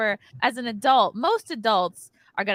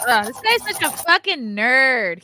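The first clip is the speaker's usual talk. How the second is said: drawn-out, scornful groan of contempt; mocking disgust; 3 semitones higher, 4 dB louder, slower than usual. Real, not acted. Podcaster jeering at the guy in the clip, scornful. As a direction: sneer it slowly, leaning on the insult.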